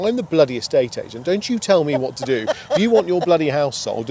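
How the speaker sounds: mock shouting agent. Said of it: "that person used to shout down the phone".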